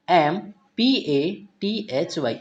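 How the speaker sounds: very slow, letter by letter; spelling out letters. Shown as a demonstration. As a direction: spell each letter out slowly with pauses. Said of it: "यहाँ पर S Y". (धीरे-धीरे अक्षर बोलते हुए)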